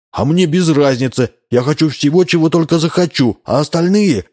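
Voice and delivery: high careless whine; bratty defiance. A narrator's reading. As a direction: brush everyone off. Spoiled boy defies.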